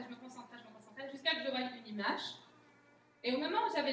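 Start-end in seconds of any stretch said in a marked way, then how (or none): 0.0-1.1 much softer, trailing inward; fading concentration. Shown as a demonstration. Preacher showing how she concentrated, much softer. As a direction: sink into focus, voice dropping away. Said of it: "comment j'ai commencé à prophétiser".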